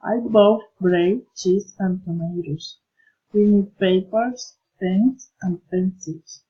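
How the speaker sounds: each item set apart, "bread", "cheese", then settle on "tomatoes"; listing intonation. Shown as a demonstration. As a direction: count off "papers", "pens", closing on "pencils". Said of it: "Enumerating interesting intonation".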